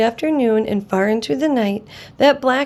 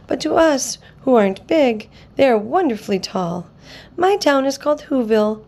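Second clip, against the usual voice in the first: tiny mayor; 2 semitones higher than usual. Acted. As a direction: speak up proudly as a tiny mayor.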